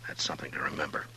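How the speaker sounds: soft, near-whispered comfort; gentle hush to a grieving woman; hushed consolation. Acted. Marshal consoling grieving sister.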